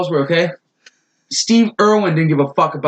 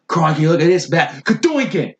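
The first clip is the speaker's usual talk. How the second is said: put-on Australian accent. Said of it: "going all the way Australian on this".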